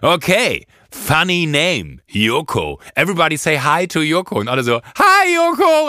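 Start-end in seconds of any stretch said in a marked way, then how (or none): 0.0-4.4 a lightly hammed-up MC; cheesy host imitation. Host teasing on mic. 5.0-5.9 very high, loud singsong greeting; a shrieked crowd hello; mock crowd chorus. Whole restaurant greeting in chorus.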